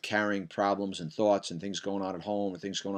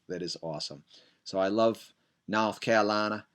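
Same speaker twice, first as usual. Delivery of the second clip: put-on North Carolinian accent. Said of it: "best shot at a, at a North Carolinian accent".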